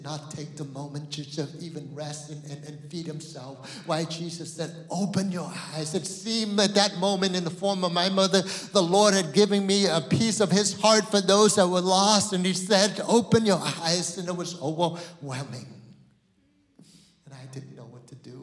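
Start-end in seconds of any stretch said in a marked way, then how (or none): 3.9-15.7 loud, higher, climbing sermon voice; full-force preaching. Acted. Pastor preaching to the congregation, loud and climbing. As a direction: preach it out with fire.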